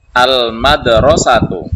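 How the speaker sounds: slow, drawn-out and loud, each syllable spelled out; slow loud model reading. Shown as a demonstration. Teacher repeats the word slowly and loudly for students. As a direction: stretch it out loudly so pupils catch every sound. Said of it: "Maka kita baca".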